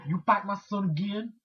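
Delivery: mom lightly imitated in Black American English; threatening Black American accent. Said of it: "talks black when she wants to be threatening".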